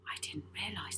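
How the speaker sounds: soft unvoiced whisper; shocked whisper; Rocky whispering his dismay. A narrator's reading.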